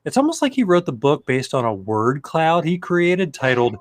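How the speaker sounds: amused, rising read with laughs; reading a snarky review aloud. Acted. Reading his own snarky review to friends, amused. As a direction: read a mocking review, enjoying each jab.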